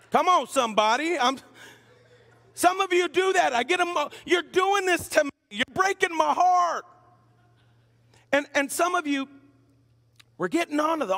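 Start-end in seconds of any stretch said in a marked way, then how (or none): 4.2-6.9 a pastor teasing the congregation with mock heartbreak. Mock hurt at slow drivers.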